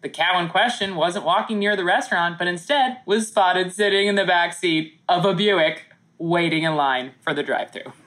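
news anchor read; newscaster voice. Acted. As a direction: read it like a TV reporter. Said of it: "doing your newscaster voice".

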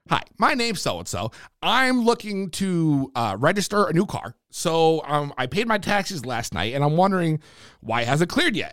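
low, measured phone-inquiry voice; polite caller. Retold or imitated. Acting out his polite call to town.

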